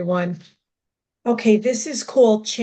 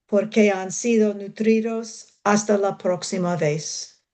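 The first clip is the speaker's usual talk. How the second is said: measured recital in Spanish; deliberate poem delivery with pauses between images; Spanish poetry reading. Acted. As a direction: read the Spanish verse phrase by phrase. Reads own Spanish poem.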